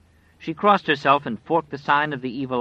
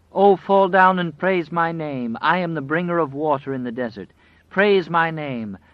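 demanding wolf; 6 semitones higher, 6 dB louder than usual. Acted. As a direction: command her to worship.

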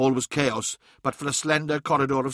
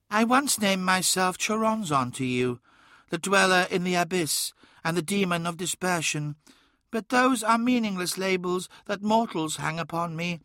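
higher, measured godlike voice; grandiose shadow daemon; 7 semitones higher than usual. A narrator's reading. Shadow names itself to Magnus, grandiose and high. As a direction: declare yourself an ageless god, pitched high.

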